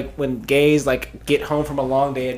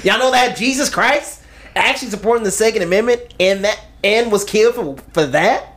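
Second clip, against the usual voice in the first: higher-pitched mock Southern twang; Southern accent; 4 semitones higher than usual. Friend reads the Second Amendment line, Southern accent. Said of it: "that's a Southern accent".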